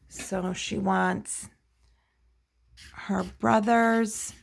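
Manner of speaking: very slow, word by word; slow dictation. Real, not acted. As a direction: draw each word out while writing it down. Writing the answer on the chart.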